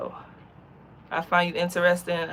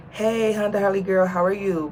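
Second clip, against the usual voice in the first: louder, higher imitated hello; imitated greeting; 3 semitones higher, 6 dB louder than usual. Man messaging the Honda Harley girl, imitated hearty greeting. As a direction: call out his greeting in a raised voice. Voicing his first online message.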